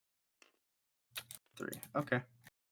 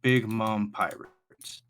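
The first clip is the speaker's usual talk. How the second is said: automated voice; 4 dB louder, slower than usual. Acted. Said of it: "automated voice".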